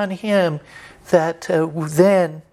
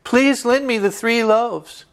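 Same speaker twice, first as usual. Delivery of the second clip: higher, slow, insistent pleading; persistent begging; 4 semitones higher than usual. Retold or imitated. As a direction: refuse to leave until he gives. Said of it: "he wouldn't let go".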